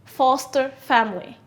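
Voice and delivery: teacher modelling foster family; model phrase. Shown as a demonstration.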